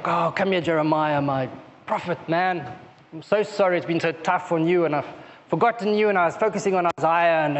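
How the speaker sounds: gentle reassurance, voice dropping low; loving comfort. Pretend. God comforting the weeping prophet Jeremiah, tenderly. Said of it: "he's expecting a loving arm around him".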